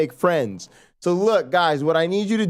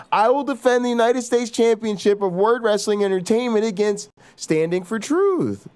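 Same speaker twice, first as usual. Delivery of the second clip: wrestling promo; 5 semitones higher than usual. Acted. Wrestling title defense boast.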